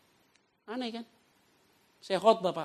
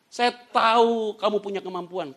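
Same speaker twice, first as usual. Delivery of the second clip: slow, loud, raised proclamation; God's declaration; 5 semitones higher, 8 dB louder, slower than usual. Acted. Preacher quoting God to the faithful, solemn and forceful. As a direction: draw it out with booming authority. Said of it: "kata Tuhan".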